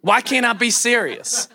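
exasperated self-questioning, lightly acted; mock frustration. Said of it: "And I got mad".

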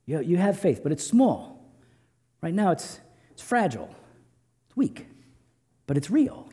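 a tender father patiently teaching his son; gentle fatherly. Acted. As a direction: reassure him gently, not scolding. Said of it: "He's saying".

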